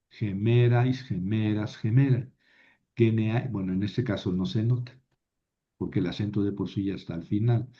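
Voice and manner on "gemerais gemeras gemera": gemerais, gemeras, gemera each stressed on ME; fixed accent. Shown as a demonstration. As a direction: recite gemerais, gemeras, gemera, leaning on the ME every time. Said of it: "el acento no se mueve".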